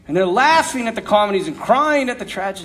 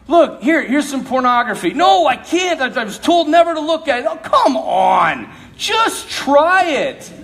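tempting voice; 4 semitones higher, slower than usual. Acted. Tempter offering pornography.

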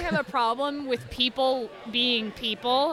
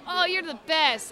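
tender praise; 5 semitones higher than usual. Retold or imitated. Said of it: "I'm like".

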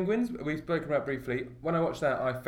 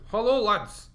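higher-pitched, bad attempt at a Scottish accent; botched Scottish accent; 6 semitones higher, 3 dB louder, slower than usual. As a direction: try a Scottish greeting and miss. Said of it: "that's not the, the accent".

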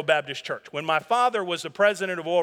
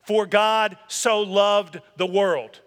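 drawn-out, reverent recitation; scripture read slowly; slow scripture quote; 4 dB louder, much slower than usual. Acted. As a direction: linger on each word of the verse. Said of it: "bring it back to us".

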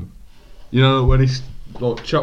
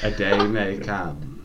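slasher killer; 3 semitones lower, 3 dB quieter, slower than usual. Acted. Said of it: "you sound like a serial killer".

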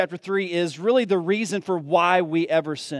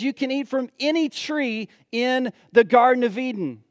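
God's generous words; 5 semitones higher than usual. Acted. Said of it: "he says".

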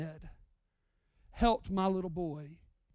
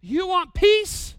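voicing God calling out; 9 semitones higher, 10 dB louder, slower than usual. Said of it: "He says".

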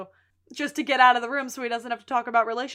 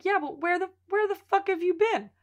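indignant Sheila; 7 semitones higher than usual. Retold or imitated. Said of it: "and Sheila's like".

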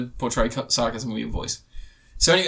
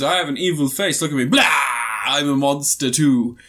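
mock monster; 3 semitones lower, 3 dB louder than usual. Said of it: "he goes".

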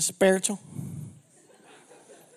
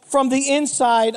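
mocking imitation; 2 semitones higher, slower than usual. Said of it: "who talks like that?".

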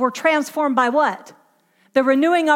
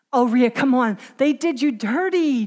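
coaxing. Acted. Acts the enemy coaxing her.

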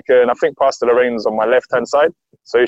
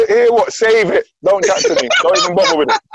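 retold brush-off; 8 semitones higher than usual. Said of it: "I'm like".

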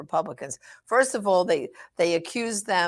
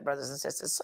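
whispered, unvoiced, much softer; hushed aside; 6 semitones lower, 10 dB quieter, faster than usual. Real, not acted. Preacher whispers to his brothers and sisters. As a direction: lean in and whisper it to the faithful.

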